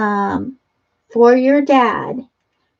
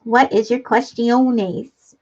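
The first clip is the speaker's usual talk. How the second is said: mock serious; much slower than usual. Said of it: "I've got my serious pantalones on".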